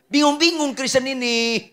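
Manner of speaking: ordinary delivery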